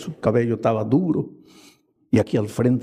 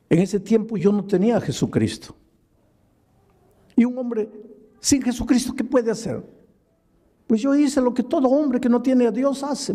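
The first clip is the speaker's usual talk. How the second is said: raised, intense preacher's voice; preaching at full force; 9 semitones higher than usual. Acted. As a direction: preach it high and urgent. (predicando con fuerza, voz alta e intensa)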